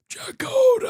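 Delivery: high, drawn-out anguished yell; full-throated scream. Retold or imitated. Co-host reenacting the film's best line delivery, screamed. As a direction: bellow the name to the heavens. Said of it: "and he screams".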